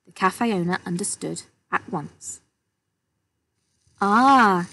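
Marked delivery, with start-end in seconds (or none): 4.0-4.7 relieved. A narrator's reading. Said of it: "smiling with relief".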